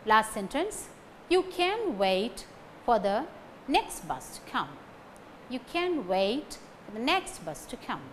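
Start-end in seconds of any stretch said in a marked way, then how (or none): 1.3-4.8 "wait" and "next" stressed. Shown as a demonstration. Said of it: "Wait and next carries stress". 5.5-8.0 "wait" and "next" stressed. Shown as a demonstration. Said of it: "Wait and next carries stress".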